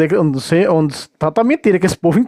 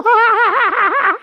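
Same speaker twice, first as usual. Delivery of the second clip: high, real belly laugh; burst of laughter; 13 semitones higher than usual. Real, not acted. Commentator laughing at the priest's face, high laughter.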